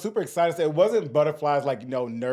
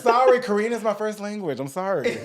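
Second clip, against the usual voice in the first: mock apology; 5 semitones higher, 3 dB louder than usual. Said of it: "I'm just kidding".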